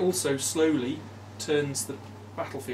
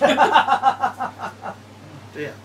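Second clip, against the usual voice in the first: surprised; 10 semitones higher, 10 dB louder than usual. Real, not acted. Sees bad card.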